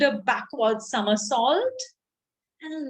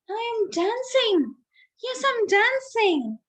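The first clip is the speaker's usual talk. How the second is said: high, excited cry of joy; a giraffe overjoyed to be dancing; joyful cry; 4 semitones higher than usual. Acted. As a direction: burst out in delight. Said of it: "Gerald cried".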